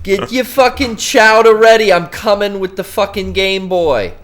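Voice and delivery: hammed-up, drawn-out Boston accent; Boston tough talk. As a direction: boast it in thick Boston. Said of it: "Yeah, it's a Boston accent".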